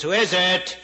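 lightly voiced parrot; a hint of parrot in the repeated question. Parrot asks the plumber yet again, lightly voiced parrot.

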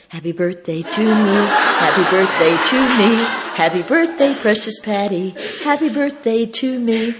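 loud, high celebratory chant; joyful birthday routine. Retold or imitated. Speaker to friend's wife, reviving the routine joyfully. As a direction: belt out the birthday chant happily.

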